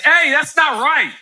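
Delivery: big brother setting it right; older brother correcting his little brother; know-it-all correction. Retold or imitated. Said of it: "Zion started saying".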